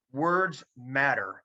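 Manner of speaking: very slow, each word weighted; second take dragged out for weight; slow emphasis. Shown as a demonstration. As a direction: let it land slowly. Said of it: "repeated for emphasis".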